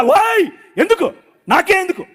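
high, slow pleading yell of why; retold anguished yell. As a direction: reenact crying out at God, drawn out. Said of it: "గట్టి గట్టిగా అరుస్తున్నా". (ఎత్తైన స్వరంలో వేదనతో అరుపు)

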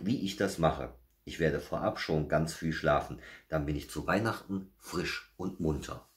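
measured, lively storybook narration; animated bedtime-story telling; story reading to children. A narrator's reading. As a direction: read a picture book to little listeners. Reads children's story aloud.

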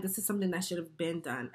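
real laugh through the words. Real, not acted. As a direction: laugh it out, amused at the scheme. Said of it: "So I'm laughing because".

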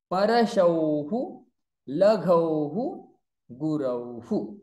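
Shishauhu, Gurauhu, each ending in hu after au; visarga hu drill. Shown as a demonstration. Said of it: "Now come to auhu". (recite au words, each closing on hu)

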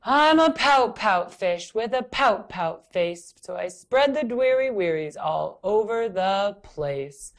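slow, droning pout-pout chant; slow pouty refrain. Acted. Fish reciting his gloomy refrain slowly. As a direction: drag out the refrain. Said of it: "Says the fish".

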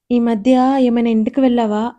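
ordinary delivery

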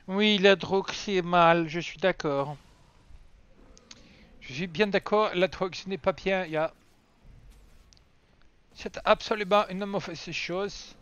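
light mock German accent, slow on the last line; lightly put-on German accent for chat. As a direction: preach against drugs in a hint of a German accent. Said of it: "je le dis avec un accent allemand".

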